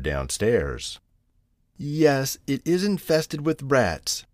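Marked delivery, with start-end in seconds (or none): 1.8-4.2 high, slow lament; a touch of tears, drawn out slowly; mildly tearful. A narrator's reading. Tabitha admits the house is infested, mildly tearful. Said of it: "said Tabitha tearfully".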